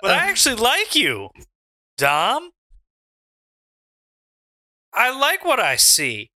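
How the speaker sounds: put-on Southern accent. Mitchy Richie tells Dom he sees potential, Southern accent. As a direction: slip into a Southern accent as you talk. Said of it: "slipped into a Southern accent".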